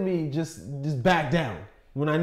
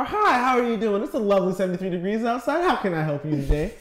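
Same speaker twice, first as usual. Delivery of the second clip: cheerful drive-thru worker; 4 semitones higher, 4 dB louder than usual. Retold or imitated. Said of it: "They come to your car".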